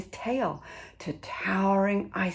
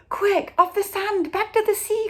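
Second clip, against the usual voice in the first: much higher, loud panicked shout; urgent cry; 8 dB louder than usual. Acted. Snail crying to the beached whale to get back to sea, loud and high. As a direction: yell at the whale to move. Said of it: "cried the snail".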